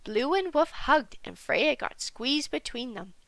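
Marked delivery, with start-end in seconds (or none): none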